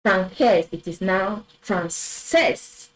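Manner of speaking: français then française, slow; French pronunciation. Shown as a demonstration. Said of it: "which would have been".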